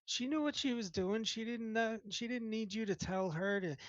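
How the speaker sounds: high, loud, bickering giant head; two bickering giant voices. Acted. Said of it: "starts laughing. He's like".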